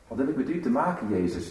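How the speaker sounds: a hurried, dismissive aside; brushed-off retort. Shown as a demonstration.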